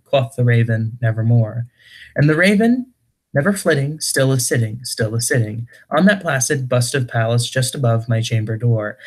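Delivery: dramatic verse reading, rising and falling line by line; poem recitation. Acted. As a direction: recite gothic verse with a lilting, swinging pitch. Reads a poem aloud.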